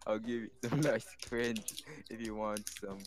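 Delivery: lightly imitated streamer, inviting; Axie. Shown as a demonstration. Friend luring listeners with cringe in an impression, lightly imitated streamer. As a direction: keep up a mild streamer impression. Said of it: "Was that accurate?".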